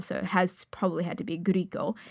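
ordinary delivery

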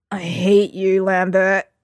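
usual speaking voice

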